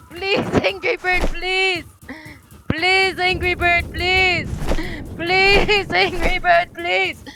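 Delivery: pleading. Pretend. Player begs the angry bird for mercy, pleading.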